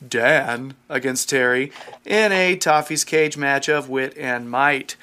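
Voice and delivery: ringmaster-style big intro; grand entrance announcement. Pretend. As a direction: announce it like a showman.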